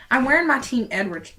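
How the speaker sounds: slips into a light Southern twang on "I'm wearing my Team Edward"; country accent. Real, not acted. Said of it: "started talking in a country accent".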